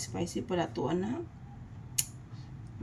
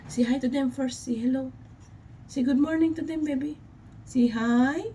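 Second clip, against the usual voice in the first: higher sing-song coaxing; 4 semitones higher, 3 dB louder than usual. Real, not acted. Mother coaxing baby to greet viewers. (malambing na boses pambata)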